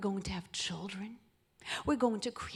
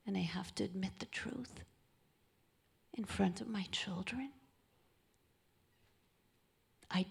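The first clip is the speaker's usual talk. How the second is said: hushed apology. Retold or imitated. Widower's apology at funeral.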